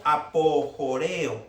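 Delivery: "apojoreo" slowly, syllable by syllable; slow, careful "apojoreo" with a Spanish J sound; sounded out as written. Shown as a demonstration. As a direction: sound out "apojoreo" just as it is spelled. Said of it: "así como suena".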